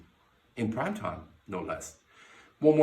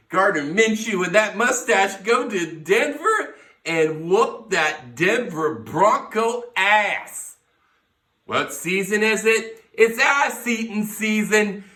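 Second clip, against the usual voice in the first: hyped shouting; 4 semitones higher, 7 dB louder than usual. Real, not acted. Hyping the Jaguars loudly.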